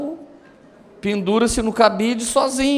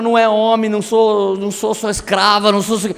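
mock nagging tirade in a raised voice; retold yelling; 5 dB louder than usual. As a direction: imitate a wife's repeated scolding. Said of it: "quando ela tava gritando".

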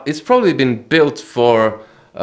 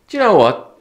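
attempted Yugoslav accent; 11 semitones higher, 6 dB louder than usual. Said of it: "He didn't speak with that accent".

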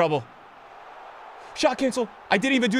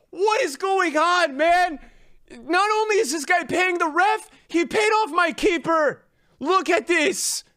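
despairing wail; 4 semitones higher than usual. Real, not acted. Crying-shouting despair at game.

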